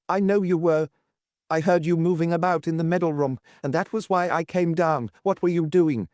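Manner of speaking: lightly voiced querulous old man; suspicious old lord. Old lord questioning his wife at night, lightly voiced. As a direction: press her like a distrustful old husband.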